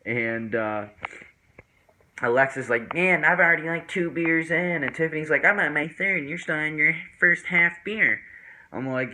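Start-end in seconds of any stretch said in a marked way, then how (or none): 2.9-4.8 teasing friend. Retold or imitated. Alexis voiced in the story. 5.5-8.2 higher, louder mocking friend; teasing girl. Tiffany voiced in the story.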